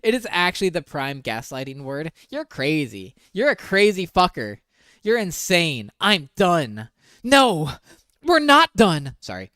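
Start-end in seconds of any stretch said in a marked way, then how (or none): 2.3-6.9 a hint of his anger, a bit louder; mock angry read. Reading the boyfriend's texts to viewers, mock angry. 7.2-9.2 high, loud comeback; loud retort. Acted. Answering the boyfriend's text out loud, shouting back.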